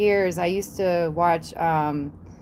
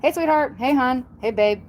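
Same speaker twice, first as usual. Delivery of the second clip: Southern endearments; 4 semitones higher than usual. Shown as a demonstration. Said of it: "we still talk like that".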